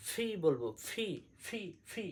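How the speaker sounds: "ফি" with a puff of air on the p; aspirated P. Shown as a demonstration. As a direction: drill "ফি" as breathy ph plus i. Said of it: "একটু বাতাস দিব". ("ফি" একটু বাতাস দিয়ে)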